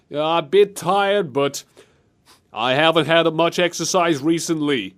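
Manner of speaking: hint of a political impersonation; Donald Trump. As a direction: stretch the opening, then pause between phrases. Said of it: "Ghost Squad line in Trump's voice".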